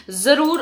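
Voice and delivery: ज़रूर popping out high and loud; emphatic ज़रूर. Real, not acted. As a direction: push the word ज़रूर hard. Urging viewers to use serum.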